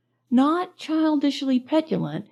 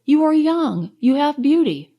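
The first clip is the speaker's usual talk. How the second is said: imploring; 5 semitones higher, 4 dB louder than usual. A narrator's reading. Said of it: "I cried imploringly".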